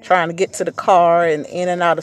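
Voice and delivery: panting after fighting the wind; out of breath from rushing. Real, not acted. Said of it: "excuse me if I'm out of breath".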